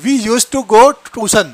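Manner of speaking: slow, careful read of the example; deliberate teacher's pace; slow model sentence. Shown as a demonstration. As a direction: say it slowly for students to copy. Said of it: "teacher model sentence, slow".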